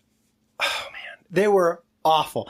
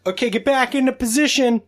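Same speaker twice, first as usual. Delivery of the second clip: director's instruction; 7 semitones higher than usual. Acted. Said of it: "And then they".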